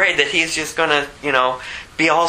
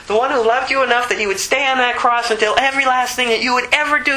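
impassioned preaching; 8 semitones higher than usual. Acted. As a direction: lift it up and preach it to the crowd. Pastor preaching at full force.

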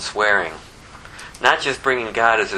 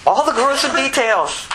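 gleeful. Retold or imitated. Follows eager firstborn joke.

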